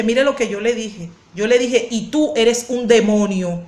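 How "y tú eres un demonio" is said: slow, deliberate retort, not raised; retold retort. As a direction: re-enact answering an accuser slowly and firmly. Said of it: "le dije así".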